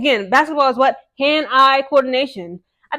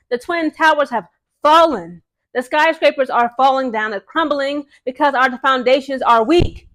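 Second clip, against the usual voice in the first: mock tragic lament; slower than usual. Mock-tragic lament about injured team.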